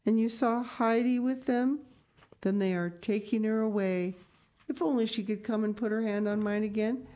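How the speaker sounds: a hint of sorrow, longing for the child; sighing grandmother. Blind grandmother lamenting Heidi leaving, mildly sorrowful. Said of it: "sighed the grandmother".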